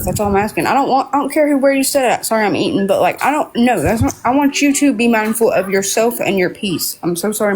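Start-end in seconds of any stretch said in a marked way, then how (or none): 0.7-2.3 talking through a mouthful of food; words round a bite, slightly raised; mouth full. Real, not acted. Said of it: "my mouth is full". 2.9-7.0 chewing while talking; mouth full. Real, not acted. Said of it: "my mouth is full".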